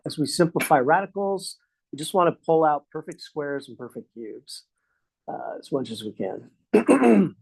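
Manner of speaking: dry throat, slightly strained; dry mouth. Real, not acted. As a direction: talk through a dry, parched throat. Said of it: "my throat's all dry now".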